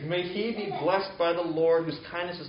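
bursting with praise. Retold or imitated. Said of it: "Naomi bursts out with praise".

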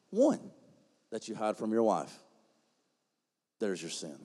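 low, soft searching questions; hushed probing. Acted. Preacher quietly probing the congregation's secrets. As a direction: press gently on their secrets.

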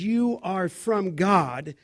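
slow phrase with weight on "You"; emphatic YOU. Real, not acted. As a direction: stretch "You are from God" slowly, leaning on "You". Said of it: "look at this emphatic".

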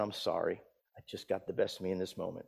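low, very soft, hurried apology; sheepish apology. Retold or imitated. Boy to two ushers after his shout, sheepish apology. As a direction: mumble it quickly and meekly.

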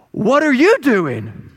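slow, drawn-out comic retort, pitched high; indignant donkey. Acted. Talking donkey looking up at Balaam, slow indignant retort. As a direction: throw the question back with slow, weighty indignation.

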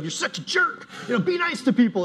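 high, snippy scolding voice; mean preacher scolding; mock scolding. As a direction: jab the words like a finger in the face. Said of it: "point in your face and be like".

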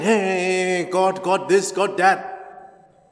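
lightly mimicked British accent; mock a British speaker's fast chatter; Richard Dawkins. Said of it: "speaking in that fast British accent".

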